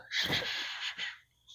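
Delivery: soft whispered shushing. Acted. Teacher quieting the class, whispered shush. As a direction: hush the children gently. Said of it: "the teacher comes over and goes".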